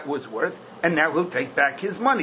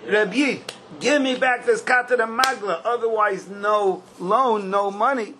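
higher-pitched insistent lender; acted ultimatum, higher voice; mock demand; 5 semitones higher than usual. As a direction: lay down terms as the lender, pitched up.

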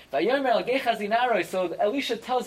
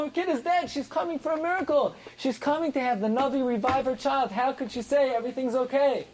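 high, excited outburst of disbelief; incredulous exclamation; 6 semitones higher than usual. Real, not acted. Teacher to class, marvelling at the mother's words, excited and incredulous. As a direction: cry out at how strange her answer is.

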